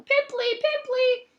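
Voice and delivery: very high, loud sing-song jeer; yelling taunt. Acted. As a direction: jeer it after her.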